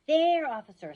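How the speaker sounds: high, loud yell. Acted. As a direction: yell to point him out. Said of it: "somebody yelled".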